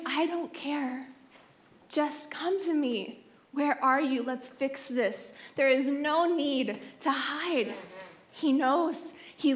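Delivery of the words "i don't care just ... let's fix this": tender slow reassurance; gentle. Pretend. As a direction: coax them home gently. God's gentle invitation voiced.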